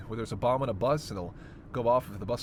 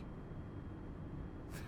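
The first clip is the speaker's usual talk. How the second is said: quiet chuckle; 14 dB quieter than usual. Acted. Teasing the driver.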